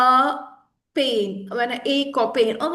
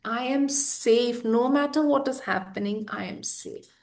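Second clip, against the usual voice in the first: self-reassuring affirmation. Shown as a demonstration. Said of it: "when you tell your body over and over".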